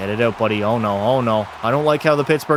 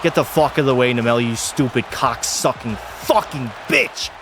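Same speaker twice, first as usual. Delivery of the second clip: angry cursing; 3 semitones lower than usual. Real, not acted. Goalie cursing out a teammate, seething anger. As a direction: spit the insults at the teammate. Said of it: "Oh, I'm so angry".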